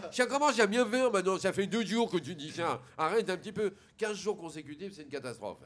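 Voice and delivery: loud lisped outburst, easing toward the end; fed-up little boy turning s into sh; speech defect. Acted. Little boy scolding the prankster, lisped exasperation. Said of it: "il parle comme ça".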